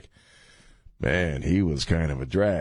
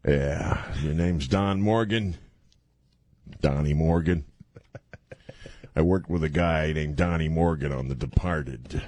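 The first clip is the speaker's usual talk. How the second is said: Jack Nicholson impression; 3 semitones lower than usual. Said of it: "I do do a pretty good Jack Nicholson there".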